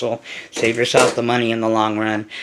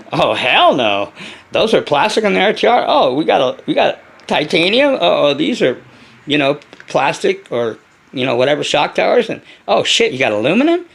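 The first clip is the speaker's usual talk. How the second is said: laughing mock disbelief; 2 semitones higher, 3 dB louder than usual. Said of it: "you're like".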